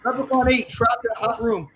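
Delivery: lightly voiced Irish leprechaun; mock Irish movie leprechaun. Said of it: "You sound like the leprechaun".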